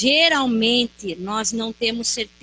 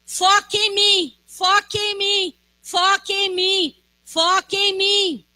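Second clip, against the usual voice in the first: Jesus reassuring; 8 semitones higher, 4 dB louder, slower than usual. Retold or imitated. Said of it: "Ele diga".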